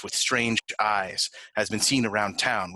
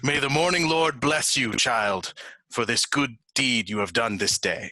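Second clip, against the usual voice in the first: solemn blessing; 2 semitones higher than usual. Acted. Cleric blessing in character.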